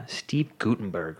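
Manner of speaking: slow whispered reveal; mock dramatic whisper. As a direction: whisper the name slowly like a big secret.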